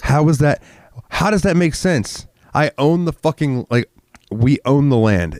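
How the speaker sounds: venting disbelief at the county; outraged rant. Real, not acted. Outraged at the county over the impact fee. Ranting about impact fees.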